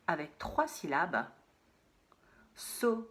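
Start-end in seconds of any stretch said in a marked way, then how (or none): 2.5-3.1 whispered word. Shown as a demonstration. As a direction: whisper saucisson to the class. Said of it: "cherchez à quel moment on entend so". (saucisson chuchoté)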